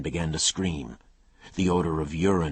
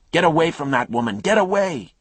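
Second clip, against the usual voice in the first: loud, higher shouted warning; man yelling; 13 semitones higher, 10 dB louder than usual. Acted. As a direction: bellow at him to get away. Neighbour shouting again.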